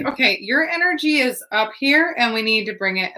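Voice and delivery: retold calming talk, starting high and coming down; imitating a steadying talk to a frantic stranger; talking someone down. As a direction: pitch up on "up here", then settle. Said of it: "literally saying it like this".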